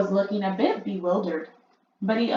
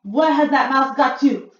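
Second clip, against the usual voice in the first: irritated searching; 6 semitones higher, 10 dB louder than usual. A narrator's reading. Witch hunting for mouse.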